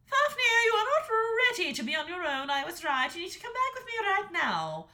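high, loud stern order; commanding dragon mother. A narrator's reading. Mother dragon ordering her son home, high and loud. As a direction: order him home, no arguing.

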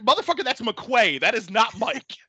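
comically outraged correction; pissed off. Retold or imitated. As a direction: act out an indignant outburst at an absurd spelling. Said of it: "it pissed me off so bad".

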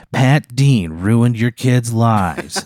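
very slow, ominous ad read; attack-ad announcer. Acted. Commercial on the news attacking the model, attack-ad voice. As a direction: draw it out like a smear commercial. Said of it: "like, an attack ad".

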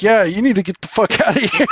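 high-pitched echo breaking into laughter; laughing mock outburst. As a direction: crack up while imitating an angry demand. Echoing wife's outburst, laughing.

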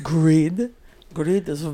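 hint of a hammed-up French accent; lightly put-on, clumsy French accent; bad French accent. Playing a movie line for the co-host, bad French accent. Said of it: "That was my worst French accent".

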